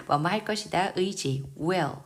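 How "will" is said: "will" drawn out slow and leaned on; stressed slowly. Shown as a demonstration. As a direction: stretch "will" with weight. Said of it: "강세 확인하면서 읽겠습니다". ("will"을 천천히 힘주어)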